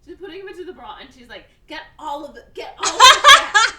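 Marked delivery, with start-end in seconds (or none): 1.7-3.7 laughing hard, high-pitched. Real, not acted. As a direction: crack up while quoting. Laughing through the scene.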